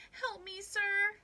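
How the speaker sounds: high, loud plea for help; little man's cry. A narrator's reading. Trapped little man to old Pat, crying for help. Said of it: "cried the little man".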